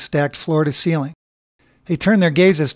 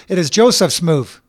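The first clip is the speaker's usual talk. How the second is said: firm; 3 semitones higher, 4 dB louder than usual. Acted. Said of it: "said Bobby sharply".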